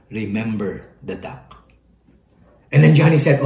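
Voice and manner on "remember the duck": soft slow whisper. A narrator's reading. Sally whispers a threat to Johnny, quiet. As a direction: hiss it low and slow. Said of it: "Sally whispered to Johnny".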